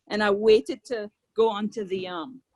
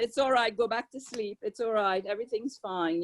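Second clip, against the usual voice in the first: reassuring; 4 dB quieter than usual. Retold or imitated. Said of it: "you just reassure them".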